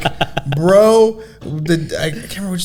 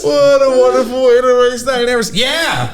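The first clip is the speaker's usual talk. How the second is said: laughing hard; 10 semitones higher, 5 dB louder than usual. Real, not acted. Repeats the line cracking up.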